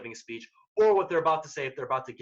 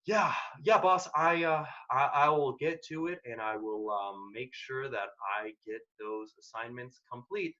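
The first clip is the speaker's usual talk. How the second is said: slow hesitant reply; 3 semitones lower, slower than usual. Shown as a demonstration. Employee answering the boss slowly and without urgency. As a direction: drag it out, stumbling and unhurried. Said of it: "if you respond by saying".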